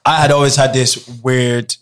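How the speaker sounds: usual speaking voice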